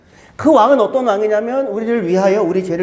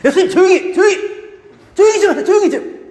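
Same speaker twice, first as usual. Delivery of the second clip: scolding hush; 9 semitones higher, faster than usual. Acted. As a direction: hush him sharply like a rebuke. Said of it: "그때 사용했던 말을 베드로가 예수님한테 해요".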